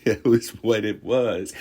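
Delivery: laughing while speaking. Real, not acted. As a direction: laugh it out, amused at the memory. Laughing at own story.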